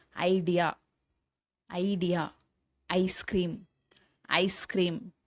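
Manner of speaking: "ஐடியா", "ஐஸ்கிரீம்" starting on "ai"; ஐ sound demo. Shown as a demonstration. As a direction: teach "ஐடியா" and "ஐஸ்கிரீம்" word by word with the "ai" glide. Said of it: "வந்து ஐ". ("ஐடியா", "ஐஸ்கிரீம்" ஐ ஒலியில் தனித்தனியாக)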